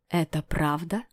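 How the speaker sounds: usual speaking voice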